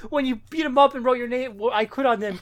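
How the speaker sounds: high, loud hammed-up accusing voice; mock villain accusation. Podcaster retelling comic, hamming up the accuser's outburst.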